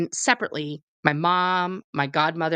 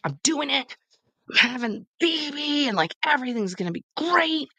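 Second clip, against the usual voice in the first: mock giddy optimism; 9 semitones higher than usual. Pregnant and sure everything's great, mock giddy high voice. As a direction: gush in a pitched-up mock-hopeful voice. Acts out false hope about baby.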